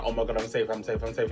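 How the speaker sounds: low, quiet self-reassurance; understated retold panic. Patient in the chair calming herself, understated panic. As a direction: repeat it low and under control, only a touch of panic.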